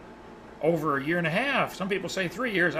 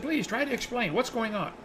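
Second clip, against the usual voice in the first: higher, lightly acted plea; retold pleading; 5 semitones higher, 3 dB quieter than usual. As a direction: gently beg for an explanation. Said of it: "He said".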